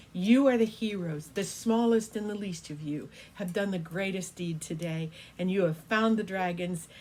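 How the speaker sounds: loud, booming praise from a great dragon; proud emperor dragon. Acted. Emperor dragon honouring little Lindley, loud and proud. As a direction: proclaim it like a proud dragon king to a small hero. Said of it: "And he said".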